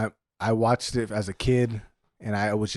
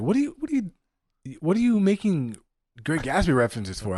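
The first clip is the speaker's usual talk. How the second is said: incredulous; 5 semitones higher than usual. Retold or imitated. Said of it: "he was like".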